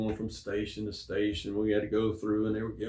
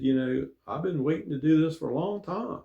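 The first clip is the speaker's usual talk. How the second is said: earnest pleading; 6 semitones higher than usual. Retold or imitated. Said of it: "and I was hurt".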